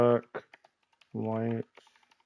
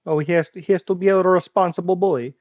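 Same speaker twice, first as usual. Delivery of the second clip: teasing; 6 semitones higher, 4 dB louder than usual. Pretend. Teasing friend about school.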